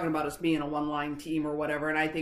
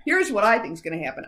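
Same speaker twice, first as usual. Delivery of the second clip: laughing; 3 semitones higher, 5 dB louder than usual. Real, not acted. Still laughing after the joke.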